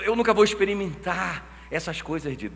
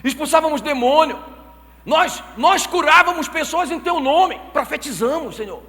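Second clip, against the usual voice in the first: raised, louder indignant protest; pleading protest; 9 semitones higher, 7 dB louder than usual. Acted. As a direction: plead your case to the Lord, loud. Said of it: "os caras falam assim". (protesto indignado em voz alta)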